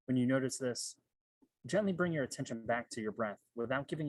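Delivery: measured meditation instructions with long pauses; guided meditation. Real, not acted. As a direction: guide listeners through breathing, leaving space between phrases. Leads one-minute guided meditation.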